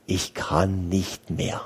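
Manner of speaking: exhausted. Retold or imitated. Priest retells his breakdown.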